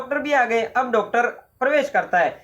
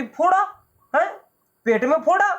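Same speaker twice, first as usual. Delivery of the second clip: high alarmed question about "फोड़ा"; a mother frightened for her son; trembling fear; 8 semitones higher than usual. Acted. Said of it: "माँ को डर लगा". (काँपती, डरी हुई माँ)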